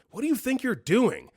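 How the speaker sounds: high-pitched sleep-talking accusation; angry. Retold or imitated. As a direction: demand it as an angry sleeper would. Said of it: "in a tone I've never heard from him. He's so angry".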